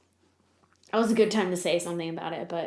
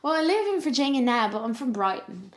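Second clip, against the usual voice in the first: put-on British accent; 3 semitones higher than usual. Telling the band her hometown, put-on British accent. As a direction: fake British, starting higher then settling. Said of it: "I put on a British accent".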